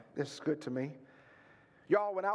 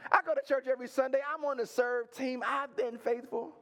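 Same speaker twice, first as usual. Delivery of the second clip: mock resume recital; 4 semitones higher than usual. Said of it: "read your resume to God".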